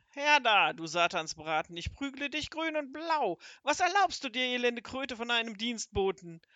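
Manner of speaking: a wizard ranting and threatening a beating; furious wizard storms into the kitchen yelling; raging. Acted.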